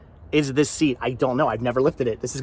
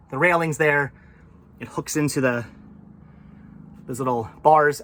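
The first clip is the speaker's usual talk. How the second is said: out of breath after lifting; winded, catching your breath. Real, not acted. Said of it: "I'm so out of breath".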